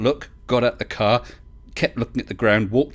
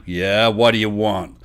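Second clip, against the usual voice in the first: slow, mock American rancher drawl; American accent; 4 dB louder, slower than usual. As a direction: imitate an American rancher, taking it slowly. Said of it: "You've got a good American accent".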